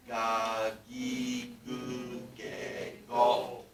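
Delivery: ga, gi, gu, ge, go said slowly for repeating; class recitation. Shown as a demonstration. Teacher leading students to say it together. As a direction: lead the class through ga, gi, gu, ge, go. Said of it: "Let's say it together".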